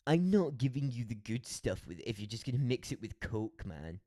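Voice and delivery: mock a snobbish Scottish bartender; pretentious Scottish accent. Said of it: "most obnoxious accent".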